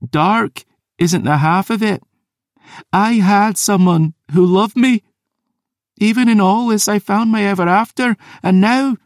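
grieving, furious maid; tearful rage. Acted. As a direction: break down while shouting. Isla tearful outburst.

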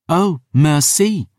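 put-on slow, high, bitter young woman; spat. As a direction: spit the thanks sarcastically. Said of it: "she spat".

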